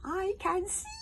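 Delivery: very high, loud babble; hogfly greeting its friend; silly hogfly. Acted. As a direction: chirp nonsense happily.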